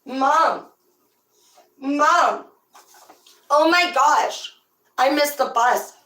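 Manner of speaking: high, loud, drawn-out wail; child calling Mom. Acted. Kid telling mom about the missed bus, mock distress. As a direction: whine it out like a panicked kid.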